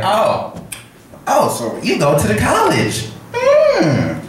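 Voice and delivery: high-pitched mock sassy old woman; nosy, high voice with loads of attitude; sassy bus lady. Crazy bus lady quizzing the young rider, high sassy voice. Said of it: "there was a lot of neck movement when she was talking to me".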